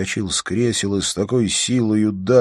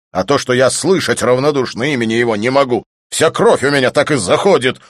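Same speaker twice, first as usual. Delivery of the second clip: fast, loud, higher furious rant; angry outburst; 6 semitones higher, 8 dB louder than usual. Acted. Volyntsev telling his friend he cannot bear Rudin's name, furious. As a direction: boil over with rage.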